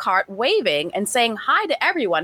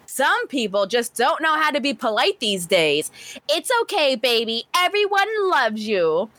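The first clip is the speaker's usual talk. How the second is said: imitating a mom talking at bystanders through her kid; pointed mom talk; 2 semitones higher than usual. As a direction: play a huffy mom making sure others overhear. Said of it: "kept loudly talking to the kid".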